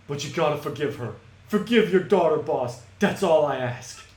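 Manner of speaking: lightly voiced couple pleading; pleading lovers. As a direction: beg for forgiveness. Lovers beg the boss.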